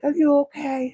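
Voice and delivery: high, sympathetic check-in; concerned. Retold or imitated. Retold concern for sad man.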